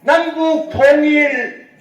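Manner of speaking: loud, high, slow rally cry; shouted cheer. Real, not acted. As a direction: lead the crowd in a chant. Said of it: "제가 선창하겠습니다".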